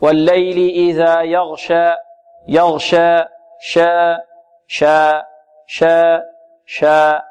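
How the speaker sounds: يغشى ending in an open aa, not tilted to e; recite, keeping شا a clear open shaa; measured recitation with open شا; alif without taqlil. Shown as a demonstration. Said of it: "كذلك نحذر من تقليلها".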